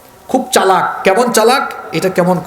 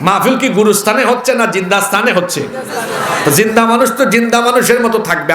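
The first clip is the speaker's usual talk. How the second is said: scolding shout; faster than usual. Real, not acted. Scolding a silent crowd.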